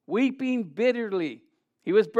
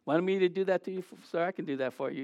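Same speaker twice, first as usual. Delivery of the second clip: concerned bystander; 7 dB quieter, faster than usual. Retold or imitated. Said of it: "people are like".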